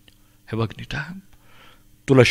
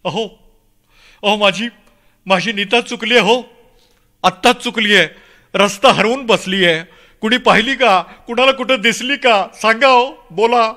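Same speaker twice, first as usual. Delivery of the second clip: high, urgent appeal to a crowd; desperate father calling out; crying out; 8 semitones higher, 4 dB louder than usual. Acted. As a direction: beg strangers for help at raised pitch. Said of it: "किती मोठ्यानं ओरडलो मी".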